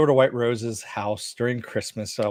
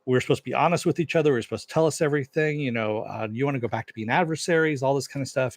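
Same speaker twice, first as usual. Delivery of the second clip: quick, mildly heated complaint; retold blow-up; 3 semitones higher, much faster than usual. Elliot confronts Mister Robot, retold as a mild blow-up. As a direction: rattle off a mock angry reproach. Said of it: "Elliot just blows up at Mister Robot".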